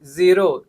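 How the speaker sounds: ज़ीरो said slowly with a clear z; slow and lean on the z of ज़ीरो; z sound. Shown as a demonstration. Teacher modelling the z in ज़ीरो for students. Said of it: "sound आता है ज का".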